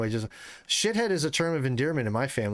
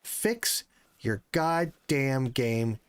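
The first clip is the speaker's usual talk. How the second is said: weary plea; 2 semitones higher, much slower than usual. Real, not acted. Streamer angry at game bugs.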